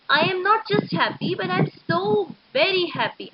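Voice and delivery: "not just happy" against "so very happy", both pitched high; emphatic contrast. Shown as a demonstration. Teacher explaining an extreme feeling to students, emphatic. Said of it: "I am showing an extreme feeling".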